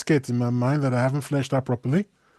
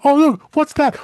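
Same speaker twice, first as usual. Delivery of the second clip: raised, surprised "oh, look"; mock surprised humans; 9 semitones higher, 4 dB louder than usual. People spotting aliens on the moon, mock surprise. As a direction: point and gawk like a startled onlooker. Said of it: "Then there's people".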